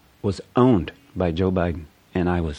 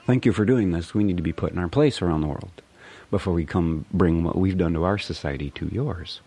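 mock relief. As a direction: cry out in exaggerated relief. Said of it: "and I'm like".

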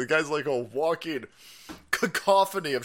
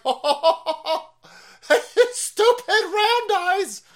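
much higher, loud, slow mocking cackle voice; mock laughing China; 5 dB louder than usual. Streamer imitating China laughing at America, high cackle. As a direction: cackle it out as a cartoon villain. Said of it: "so China's like".

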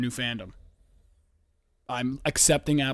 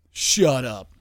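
louder, curt shut up; snapping at the dog; 7 dB louder than usual. Real, not acted. To the panting pug, loud curt scolding. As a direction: cut the dog off sharply.

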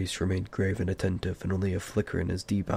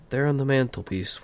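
irritated, higher-pitched reply; impatient; 6 semitones higher, 4 dB louder than usual. A narrator's reading. Bilbo telling Gandalf where it is, impatient. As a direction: toss the answer back impatiently. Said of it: "said Bilbo impatiently".

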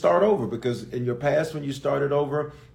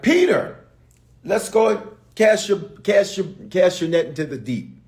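calling Jesus voice; 3 semitones higher, 3 dB louder than usual. Retold or imitated.

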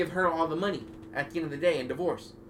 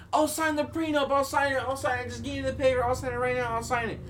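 mock crying plea; 10 semitones higher than usual. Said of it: "She's crying all over the floor".

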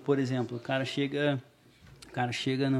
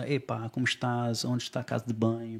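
imitated European Portuguese; 3 semitones lower than usual. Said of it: "eu não ficava falando".

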